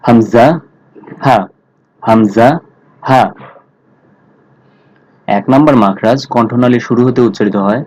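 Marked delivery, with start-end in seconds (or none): 0.1-3.2 হামজা and হা said firmly from the start of the throat; hard throat letters. Shown as a demonstration. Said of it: "একটু শক্ত করে উচ্চারণ করতে হবে". (কণ্ঠনালীর শুরু থেকে শক্ত করে হামজা, হা)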